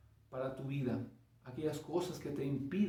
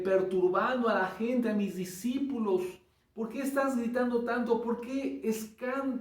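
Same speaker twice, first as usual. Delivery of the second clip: lightly voiced Jesus, a bit higher and puzzled; Jesús questioning; 4 semitones higher than usual. Jesus asking the shouting blind man what is wrong, lightly voiced and higher. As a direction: ask gently but insistently, a touch higher. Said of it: "¿Qué pudo haberle dicho Jesús".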